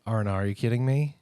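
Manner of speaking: R and R as a dismayed Australian "oh no"; mock Australian dismay. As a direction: react to bad news in a mock Australian accent. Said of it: "give me some bad news".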